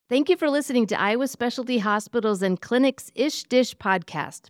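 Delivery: polished announcer-style sign-off; scripted podcast outro. Real, not acted. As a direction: read the show's closing credits to listeners.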